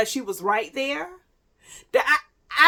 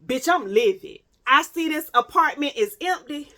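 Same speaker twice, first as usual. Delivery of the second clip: livid; 3 semitones higher, 4 dB louder than usual. Retold or imitated. Storyteller relives finding the apartment empty, livid. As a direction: replay the outrage, stretching the last "livid". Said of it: "I'm still thinking like".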